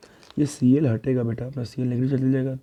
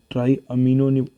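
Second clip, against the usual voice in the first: अमीनो pushed louder and held in ट्राई अमीनो; stress on अमीनो; 6 dB louder than usual. Shown as a demonstration. Teacher stresses अमीनो to students naming a ligand. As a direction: lean hard on the ending of अमीनो. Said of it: "अमीन नहीं बोलेंगे".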